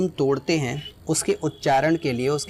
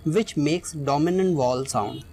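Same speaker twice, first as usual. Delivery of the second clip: slow reading; much slower than usual. Shown as a demonstration. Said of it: "इस definition को read करते हैं".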